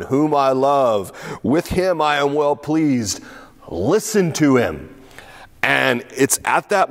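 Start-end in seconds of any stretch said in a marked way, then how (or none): 0.0-4.9 slow, solemn voice of God the Father; a lightly voiced, slow divine proclamation. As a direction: let each word land slowly from the cloud. God the Father speaks from cloud.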